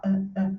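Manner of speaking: "ah, ah" as tiny, weak schwa sounds. Shown as a demonstration. Teacher isolates the schwa for students, weak schwa. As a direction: let "ah, ah" out as two short, faint neutral vowels. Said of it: "ele é bem fraco".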